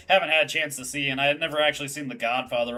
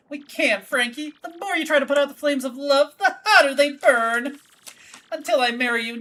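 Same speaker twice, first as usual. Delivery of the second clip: a soap-opera heroine vowing love; Francesca melodramatic; 9 semitones higher than usual. Acted. Daughter defying everyone for love, high and dramatic.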